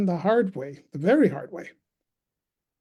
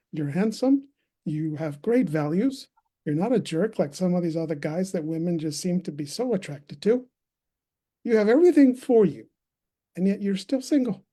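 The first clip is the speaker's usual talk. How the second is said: retold exasperated listing of good points; frustrated mother. Mom lists her son's qualities, mildly frustrated. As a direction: imitate a mom mildly baffled, counting off virtues. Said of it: "if it was frustration".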